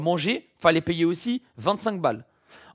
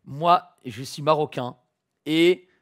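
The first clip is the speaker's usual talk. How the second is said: soft apologetic plea; 6 semitones lower, 5 dB quieter than usual. Acted. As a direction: mumble a sorry apology. Quiet fake apology video. (voix basse et penaude)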